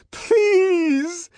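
high, loud, drawn-out wail; tremulous plea. A narrator's reading. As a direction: beg loudly while being shaken. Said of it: "in a voice made grotesquely tremulous".

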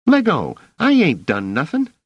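put-on high, loud, indignant street kid; squealed protest at being grabbed; protesting boy. A narrator's reading. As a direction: yelp it while pulling free. Boy seized by an officer.

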